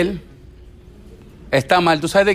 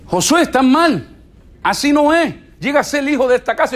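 mock scolding; 3 semitones higher than usual. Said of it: "cómo podemos decirle".

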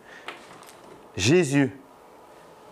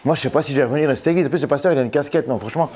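mock offended churchgoer; much faster than usual. Voicing shocked churchgoer, fast.

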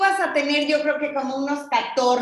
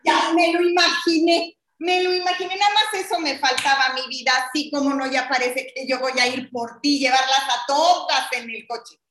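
exasperated mom scolding. Pretend. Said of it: "tú eres mi mami".

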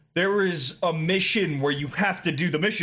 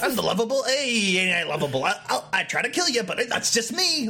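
Stabby McGee; 3 semitones higher than usual. Acted. Orc excusing himself to the player, mildly mock-lovable. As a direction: play at being a lovable rogue. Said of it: "But no, we get".

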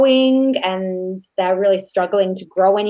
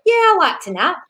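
lazy mock reply; 10 semitones higher than usual. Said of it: "good sense of humour ... he's like".

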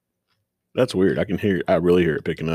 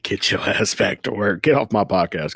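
mock bossy; 2 semitones higher, 3 dB louder than usual. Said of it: "I'm just kidding".

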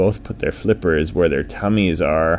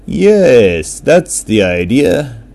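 orca agreeing; 5 semitones higher, 7 dB louder, much slower than usual. A narrator's reading.

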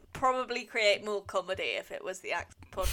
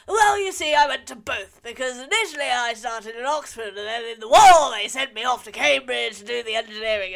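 put-on grand British accent; posh British accent; 3 semitones higher, 8 dB louder than usual. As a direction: play the posh Oxford old gentleman in a British accent. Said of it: "That was the best British accent".

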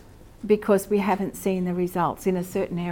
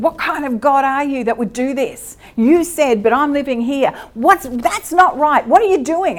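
louder, rising protest at God; mock the son's anger, pushing higher; retold angry outburst; 4 semitones higher, 4 dB louder than usual. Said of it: "he would get really angry at God".

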